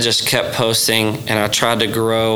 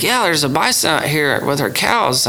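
imitated funny rural accent, a bit higher; uncle's funny accent; 5 semitones higher than usual. Uncle insisting there's a bison, imitated funny accent. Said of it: "He's got this funny accent".

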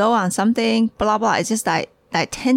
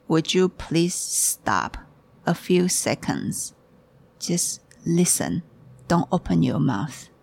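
retold slow, deliberate request; measured admonition. Teacher asks a talkative visitor to listen, slow measured admonition. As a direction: spell it out slowly, pausing between phrases.

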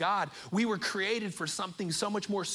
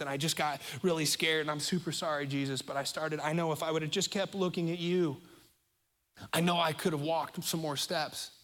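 sheepish Peter; 3 semitones lower than usual. Retold or imitated. Peter confessing to Jesus.

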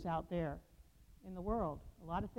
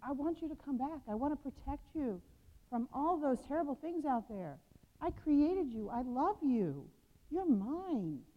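higher, tender pleading; tender pleading call; 4 semitones higher than usual. Acted. Jesus calling his people back, tender and pleading. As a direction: plead gently with strays to come home. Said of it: "He's saying".

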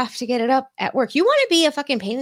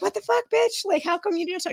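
higher, indignant outburst; mock-upset demand; 11 semitones higher than usual. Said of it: "I was so upset".

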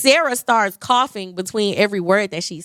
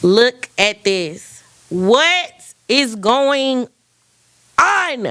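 very slow, drawn-out disbelief; dragging it out, floored; stunned amazement; 3 dB louder, much slower than usual. Retold or imitated. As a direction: stretch each word in amazement. Showing the big check in amazement.

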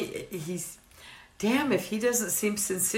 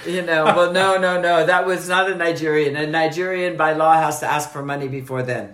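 mock Usman voice; 2 semitones lower than usual. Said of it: "Usman was giving his take".

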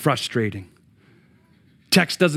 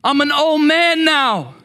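lightly voiced old man, slow, in disbelief; a hint of a tired old priest who doubts; doubting old Zechariah; 5 dB louder than usual. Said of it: "That's his response".

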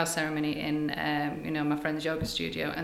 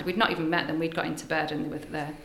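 ordinary delivery

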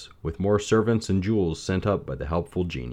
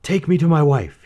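higher, louder pleading plea; begging; 9 semitones higher, 8 dB louder than usual. A narrator's reading. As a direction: beg with desperate longing. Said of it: "he begged".

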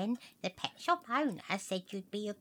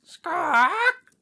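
higher, louder alarmed squawk; 6 semitones higher, 9 dB louder than usual. Acted.

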